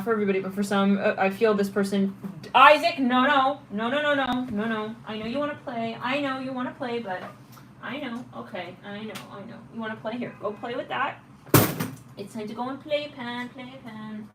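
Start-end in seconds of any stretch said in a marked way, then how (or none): 2.6-5.0 louder, higher repeated no; firm no to the dog. Real, not acted. Telling her dog Isaac no, louder and higher. 5.1-14.3 soft, high coaxing voice for the dog; soft pet talk. Real, not acted. Calming her puppy down, soft and high.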